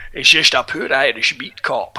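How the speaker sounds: lightly mocked terrible Irish cop accent; bad Irish accent. Host mocking the film's Irish cop, bad Irish accent. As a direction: put on a poor movie-cop Irish accent. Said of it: "it's literally the worst Irish cop".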